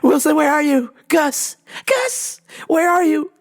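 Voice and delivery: hammed-up shout across an empty island; mock desperate calling for a lost friend; Castaway calling out. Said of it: "treating Gus like Castaway".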